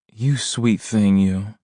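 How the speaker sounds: high, slow delighted squeal. A narrator's reading. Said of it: "she squealed".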